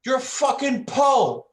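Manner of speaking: mock aggressive local. Retelling the pub guy shoving him, high mock bully voice. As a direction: jeer it like a drunk pub bully. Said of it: "He's like".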